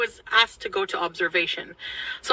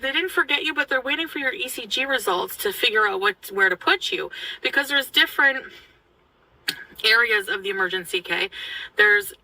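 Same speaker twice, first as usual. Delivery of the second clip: put-on French Canadian accent. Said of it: "I'm just gonna try to imitate it".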